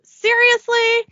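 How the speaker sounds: high, loud, drawn-out SERIOUSLY. Acted. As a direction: stretch it out in mock outrage. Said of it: "at his new clothes and says".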